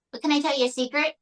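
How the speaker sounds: lightly voiced puppet sharing a secret; mildly put-on ventriloquist's puppet voice; scheming puppet Mae. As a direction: confide like a puppet diva plotting a solo career.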